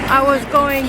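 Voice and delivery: winded from climbing stairs; breathless after the stairs; out of breath. Real, not acted. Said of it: "I sound like I'm out of breath".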